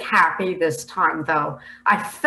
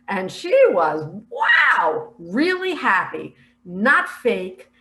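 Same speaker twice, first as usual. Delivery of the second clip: raised, emphatic amazement on "wow"; amazed delight; 4 dB louder, slower than usual. Real, not acted. Speaker describing Harris's joy in a vision, amazed delight. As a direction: marvel out loud at her happiness.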